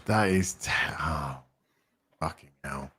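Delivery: exasperated pleading. Real, not acted. Exasperated at donor name.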